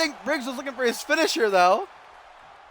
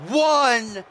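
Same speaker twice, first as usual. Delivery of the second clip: long, stretched count; big commentator's count; drawn-out pin count. Real, not acted. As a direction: stretch each number out for suspense. Calling the deciding pin count.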